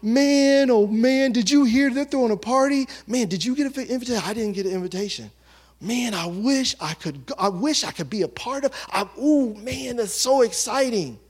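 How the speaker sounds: eager excitement. Retold or imitated. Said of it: "the person that's like".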